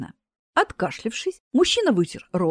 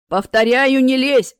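stern repeated warning; 3 semitones higher, 7 dB louder than usual. Acted. Death warns again.

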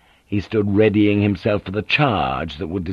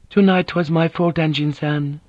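higher voice of a proud injured lady; a dignified woman, hurt and firm; proud wounded noblewoman; 7 semitones higher than usual. Acted.

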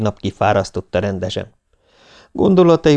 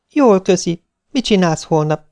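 put-on higher, friendly girl's voice; a lively young woman asking, higher; young woman on the phone; 10 semitones higher than usual. Viktória asks Nándi about tomorrow, higher friendly voice. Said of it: "kérdezte a lány a telefonból".

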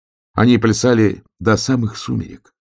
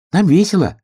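much higher, cheerful little voice; smaller sun hare; 11 semitones higher, 4 dB louder than usual. A narrator's reading. Smaller sun hare boasts of the fun, high cheerful voice. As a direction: bubble over with fun. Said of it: "сказал солнечный заяц поменьше".

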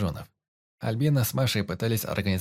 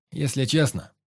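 loud and clear; 6 semitones higher, 3 dB louder than usual. Acted. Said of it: "я говорил громко".

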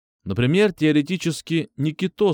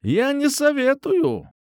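smirking; slower than usual. A narrator's reading. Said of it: "усмехнулась тётка".

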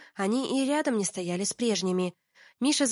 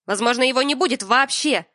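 louder, higher threatening retort; ominous retort; 4 semitones higher, 7 dB louder than usual. Acted. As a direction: throw it back as a threat. Муж мрачно угрожает.

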